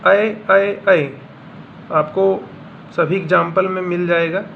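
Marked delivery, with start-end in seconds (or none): 0.1-1.1 ऐ, ऐ, ऐ said as a clear open vowel, raised and louder; repeated vowel drill. Shown as a demonstration. Teacher drills the vowel for students, emphatic repetition. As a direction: drill the open ऐ three times for the class. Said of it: "रैट में देखिए".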